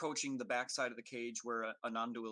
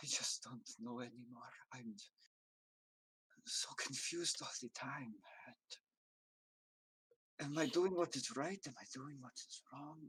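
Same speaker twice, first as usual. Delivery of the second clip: tearful, choking voice, words catching on sobs; 4 dB quieter than usual. A character speaks to Ananduil as the players approach, choking through tears. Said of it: "her voice almost choking through tears".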